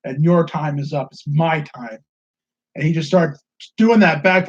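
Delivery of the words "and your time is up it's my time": slow low menace quote. Retold or imitated. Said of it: "he said it was".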